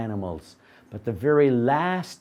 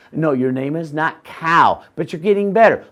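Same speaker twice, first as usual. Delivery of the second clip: louder insistence; 7 dB louder than usual. Acted. Man growing louder.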